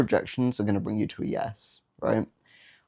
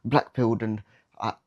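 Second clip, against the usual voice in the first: whiny rejected guy; 3 semitones higher than usual. Retold or imitated. Rejected guy spiralling after a girl says no, mock whine. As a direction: ham up a self-pitying meltdown. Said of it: "that dickhead guy that's like".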